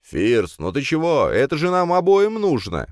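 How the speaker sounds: high, rising, insistent appeal; earnest coaxing. A narrator's reading. Friend insisting they both need it, high and coaxing. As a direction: wheedle him as if he needs it too. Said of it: "проговорил он так, словно мне это действительно нужно".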